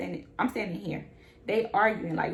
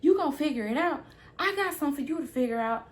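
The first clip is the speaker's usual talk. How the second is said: mocking anger; 5 semitones higher, faster than usual. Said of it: "she's talking about".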